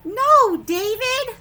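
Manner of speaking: loud, high scolding No, David; sharp parental shout of No, David. Acted. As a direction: yell it like a mom catching him. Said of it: "reading the book title aloud".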